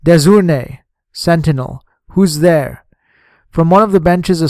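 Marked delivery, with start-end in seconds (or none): none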